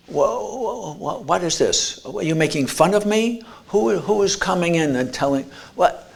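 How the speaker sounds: stumbling over words, not believing it; confused father. Retold or imitated. Grieving father hearing his son at the door, bewildered.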